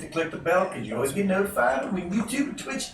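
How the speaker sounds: high excited streamer pitch; hyped plug. Pretend. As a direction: sell the subscribe plug.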